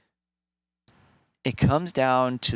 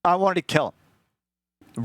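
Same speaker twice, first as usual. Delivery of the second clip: slow angry emphasis; 7 semitones higher, 3 dB louder, slower than usual. Real, not acted. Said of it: "My blood was boiling".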